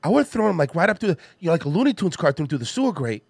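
a puzzled Boston guy in a tunnel; concerned Mark Wahlberg. Acted. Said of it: "impression of a concerned citizen Mark Wahlberg".

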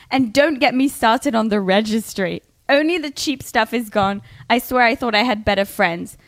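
lightly performed read-out of a rant; reporter reading. Acted. Host playing reporter with a bride's Facebook rant, mildly indignant. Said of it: "I'm trying to be a reporter here".

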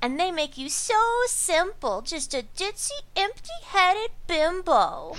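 a hint of a breathy ditzy hypnotist; bimbo voice. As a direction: coo it like a sweet airhead hypnotist. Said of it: "I'm totally doing a bimbo voice".

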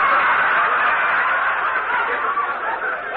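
long squealing laugh; high breathy laugh. Real, not acted. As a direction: break up in a high cackle. Laughing at insult joke.

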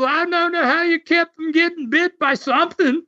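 put-on the Aussie marvelling, Australian accent. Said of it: "the Aussie".

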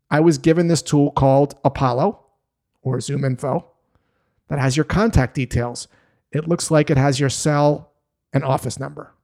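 calm, unhurried answer with pauses between phrases. Shown as a demonstration. Sales rep answering an upset prospect about their number, calm. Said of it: "you might say in a calm voice".

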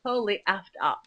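lightly drawled mock valley girl. Acting a valley girl while cohost laughs, light mock voice. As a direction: play a bored shallow girl, half-hearted. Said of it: "I can't believe you're talking like this".

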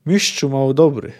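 mildly pompous official address; artificial emphasis. Acted. Mourning official addresses the executioner, artificially emphatic. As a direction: lay on a touch of false solemnity. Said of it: "rzekże sztuczną emfazą żałobny".

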